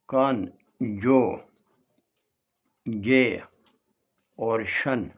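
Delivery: कान, जो, गे, शन with long gaps between; each piece of कान, जो, गे, शन standing alone; syllable by syllable. Shown as a demonstration. Teacher dividing conjugation for learners, syllable by syllable. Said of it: "इसमें syllable देखिए".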